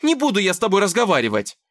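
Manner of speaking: loud, high and fast refusal; angry shout. Acted. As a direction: snap it out fast. Dasha refusing him.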